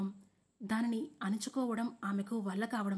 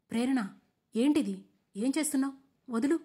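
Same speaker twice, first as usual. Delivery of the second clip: startled protest; 4 semitones higher, 6 dB louder than usual. A narrator's reading. She grabbed his collar.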